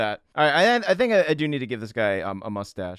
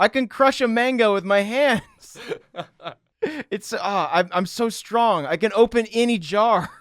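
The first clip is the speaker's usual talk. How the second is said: boastful character voice; 7 semitones higher than usual. Pretend.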